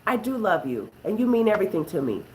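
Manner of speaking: lightly voiced, softly affirming husband; tender reassurance. Shown as a demonstration. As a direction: say it gently to a hurting wife. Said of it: "all you have to say is".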